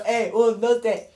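put-on high little-kid count; playful childlike countdown. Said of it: "lo hizo como, como niño".

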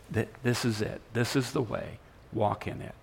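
soft, understated prompting; quiet guiding voice. Acted. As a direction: guide gently from behind, softly. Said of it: "hear a voice behind you saying".

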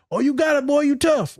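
high mock brushing-off; imitating a friend shrugging off pain; dismissive buddy. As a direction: pat him on the back and dismiss it. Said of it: "as men treat each other".

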